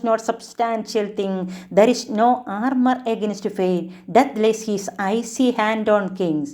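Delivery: slow, measured reading of verse; poem recitation. Shown as a demonstration. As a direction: recite each line slowly and deliberately. Teacher recites the whole poem. (പതുക്കെ കവിത ചൊല്ലുന്ന ശൈലി)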